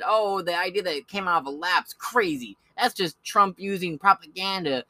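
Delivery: lightly voiced dismissive pundit; mocking liberal pundit. Mocking the liberal outlet's dismissive tone. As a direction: parody them brushing it off. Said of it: "has in the past said".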